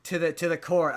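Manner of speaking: lightly imitated Southern dad giving up his rights; mild southern accent. Retelling the movie dad in court, in a light Southern accent. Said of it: "I don't know why I keep giving him a southern accent".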